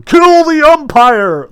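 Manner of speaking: loud, high, slow stadium heckle; mock heckler yell. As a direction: bellow it from the bleachers. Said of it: "some audience member yelling".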